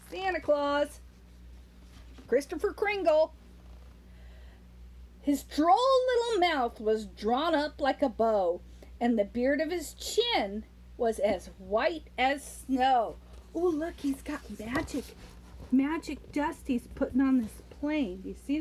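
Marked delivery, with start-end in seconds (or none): 5.2-13.2 put-on rhythmic read-aloud to a child; lilting Christmas poem reading; storybook poem reading. A narrator's reading. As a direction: read the verse like a bedtime story.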